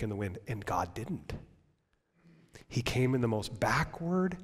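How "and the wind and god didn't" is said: quiet. Real, not acted. Hushed point about God.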